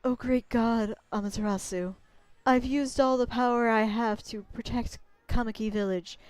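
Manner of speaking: a gentle ancient spirit pleading; Sakuya voice. Acted. Voicing Sakuya again.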